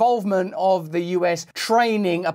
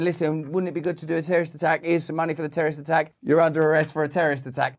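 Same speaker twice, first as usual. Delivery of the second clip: mock FBI agent; faster than usual. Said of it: "the F B I getting people together going".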